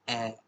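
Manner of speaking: ए as one long open vowel; German A-umlaut sound. Shown as a demonstration. Teacher answering what A-umlaut sounds like, long open ए. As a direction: hold ए as the German ä. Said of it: "आउमलाउट की sound क्या आएगी".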